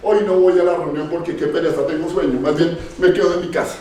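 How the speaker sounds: a hint of a lazy believer sighing out excuses; preacher mocking a lukewarm believer's excuses, mildly whiny; mock lazy churchgoer. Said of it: "Las toma así efímeramente".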